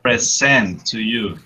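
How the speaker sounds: "Present" as a verb, pre-SENT; stress on second syllable. Shown as a demonstration. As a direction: lean on the last syllable of "Present". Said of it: "a verb".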